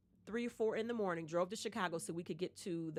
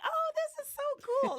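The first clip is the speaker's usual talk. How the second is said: much higher, laughing excitement; giddy delight; 6 dB louder than usual. Retold or imitated. Recalling her early career, high and laughing. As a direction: gush with laughing thrill.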